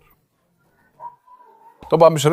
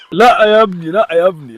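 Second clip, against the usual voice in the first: firm no; 2 semitones higher, 3 dB louder than usual. Real, not acted. Owner warning his dog off, a firm louder no. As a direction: stop him sharply.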